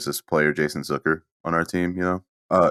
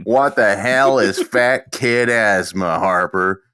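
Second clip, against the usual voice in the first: slow, disbelieving coach voice; incredulous coach; 3 semitones higher, 3 dB louder, slower than usual. Retold or imitated. Coach scoffing at a student's excuse, slow and incredulous. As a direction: drag out the disbelief. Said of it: "And he's like".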